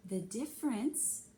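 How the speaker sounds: condescending tone. Acted. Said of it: "that you don't know anything tone".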